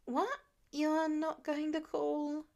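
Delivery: high, slow, startled question; surprised. A narrator's reading. Surprised kid asks Tony, high and startled. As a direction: ask it in disbelief. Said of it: "Peter blinks in surprise".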